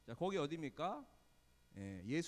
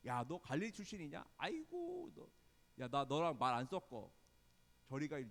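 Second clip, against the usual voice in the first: mock scorn. Snubbing someone from Galilee, mock scorn. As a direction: lightly play a disdainful snub. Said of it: "막 욕하면서 막 무시하고".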